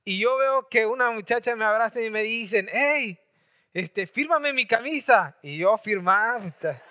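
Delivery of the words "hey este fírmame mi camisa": higher, drawn-out autograph plea; imitated excited fan. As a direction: mimic a fan begging for a signature. Fans begging for autographs.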